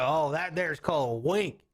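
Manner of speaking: lightly voiced Southern father. Pa explaining a wink, light Southern accent. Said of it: "He's like".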